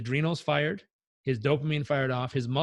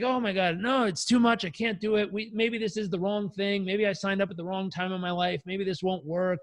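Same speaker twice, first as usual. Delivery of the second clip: higher-pitched mock fretting; anxious protesting; 5 semitones higher than usual. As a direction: imitate a client losing his nerve. Retold client backing out in doubt.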